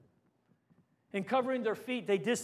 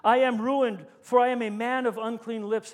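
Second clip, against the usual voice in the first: anguished confession; 7 dB louder than usual. Retold or imitated. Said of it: "I cried".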